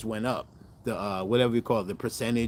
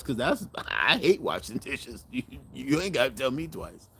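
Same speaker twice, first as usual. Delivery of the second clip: laughing; 3 semitones higher than usual. Retold or imitated. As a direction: laugh while saying it, tickled. Retelling his delighted reply.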